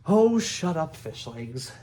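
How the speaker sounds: loud, high burst that drops off; impatient. A narrator's reading. Hiccup silences Fish Legs' protest, impatient. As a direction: cut a friend off impatiently. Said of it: "said Hiccup impatiently".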